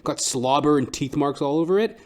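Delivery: usual speaking voice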